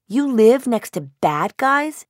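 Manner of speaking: put-on slow, high child's question; worried little girl. A narrator's reading. Lucy clinging to mom, asking slowly about bad guys. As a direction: ask it like a scared small child. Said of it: "asks Lucy".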